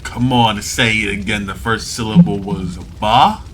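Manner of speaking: menacing demand. Acted. Owner demands they repeat.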